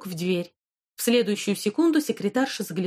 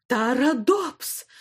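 slow, drawn-out call of the full name; stern shout; 5 semitones higher, much slower than usual. Acted. Headmistress shouts the girl's name to stop her rampage. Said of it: "закричала директриса".

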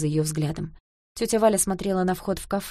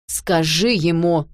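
demanding; 7 dB louder, much slower than usual. A narrator's reading. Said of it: "потребовал Борька".

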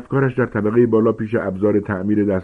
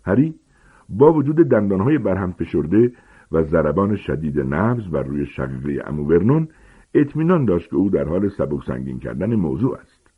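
ordinary delivery

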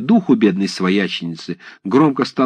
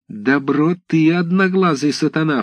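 высоко и медленно, обвиняющий выкрик; бросить обвинение прямо в лицо; гневный вскрик; 8 semitones higher than usual. Acted. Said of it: "вскричала она". (гневно вскричать, растягивая слова)

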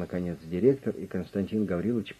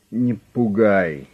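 slow, stern warning; stern calm advice to a threatening boss; 8 dB louder, much slower than usual. A narrator's reading. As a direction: drop each word slowly and firmly. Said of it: "строго посоветовал".

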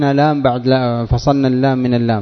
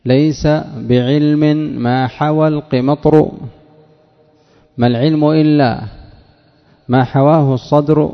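recited verse; 2 semitones higher than usual. Shown as a demonstration. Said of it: "teacher recites a verse".

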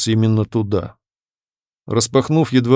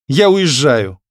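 blurted out; 4 semitones higher, 5 dB louder, slower than usual. A narrator's reading. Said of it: "выпалила девушка".

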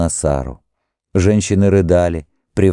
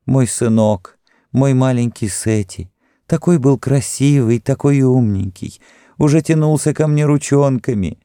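mother's grieving lament, raised pitch; moaning lament; 7 semitones higher than usual.

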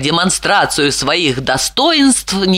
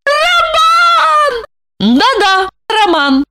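high shrill scream of a name; much slower than usual. A narrator's reading. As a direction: scream for help in terror. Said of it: "завопила".

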